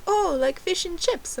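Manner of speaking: high mock American waiter; American accent. Waiter checking her fish order, high imitated American accent. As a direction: imitate a questioning American waiter, pitched right up. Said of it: "That's my American accent".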